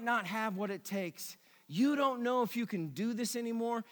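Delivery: tender pastoral voice. Real, not acted. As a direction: speak gently to those crushed. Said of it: "pastoral address to the hurting".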